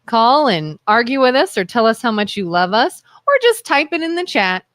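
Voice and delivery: announcer voice. Shown as a demonstration. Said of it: "What's my announcer voice".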